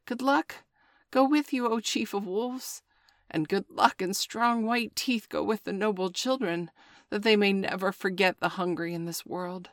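high, wheedling jackal whine; whining jackal. Acted. Jackal flatters Father Wolf at the door, high whine. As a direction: fawn and whine like a sly jackal.

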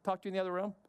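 hurried, stammering request from a wife; imitated wife. Wife asking husband for a private talk, hurried imitation. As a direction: quickly ask to pull him aside, tripping on "can". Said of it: "That's what my wife does sometimes".

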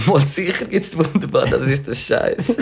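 laughing through the words. Real, not acted. Reacting to cohost's bar pick, laughing. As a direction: giggle it out.

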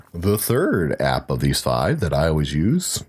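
a small, real crack in the voice. Real, not acted. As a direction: voice cracking on the last word. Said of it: "that was a fun little voice crack".

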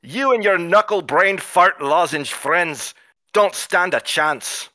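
mock Scottish dwarf hurling insults; lightly put-on Scottish brogue, jeering; bad Scottish accent. Dwarf villain insulting the heroes in Scottish accent. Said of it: "The following Scottish insults".

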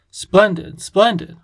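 bubbling over with delight. A narrator's reading. The king delighted by the name.

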